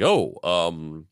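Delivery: mock befuddled sputtering; Woodrow Wilson. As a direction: choke out broken syllables, lost for an answer. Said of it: "He's like".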